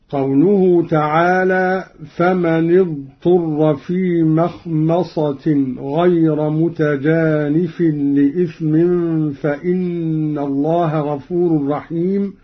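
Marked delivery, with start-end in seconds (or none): 2.2-12.3 فمن اضطر recited with the nun on a, famani-dturra; Quran recitation. Shown as a demonstration. Teacher recites first in the usual reading, famani dturra. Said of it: "قرأ قالون بضم أولى الساكنين".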